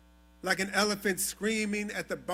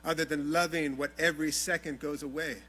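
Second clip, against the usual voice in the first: soft, lower, intimate closing; hushed; 8 semitones lower, 9 dB quieter than usual. Acted. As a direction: bring it down to a near murmur. Closing of gratitude poem, intimate.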